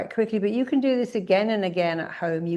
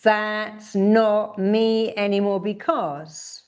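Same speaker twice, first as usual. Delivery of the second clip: slow, emphatic declaration; firm demo of a defiant statement; shouted affirmation; 3 semitones higher, much slower than usual. Shown as a demonstration. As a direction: declare it slowly, leaning on not. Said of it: "Shout out".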